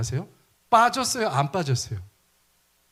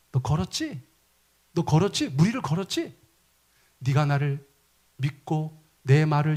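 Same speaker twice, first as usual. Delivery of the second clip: encouraging. Acted. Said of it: "격려하고 북돋아 주신 거예요".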